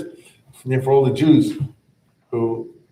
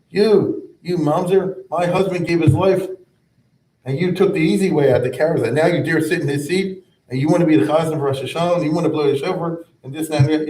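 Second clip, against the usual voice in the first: a widow scolding the man who fled; angry widow; 3 semitones higher than usual. Retold or imitated. Widow rebuking the survivor in his dead husband's seat, angry and raised. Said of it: "I can totally hear the lady is angry".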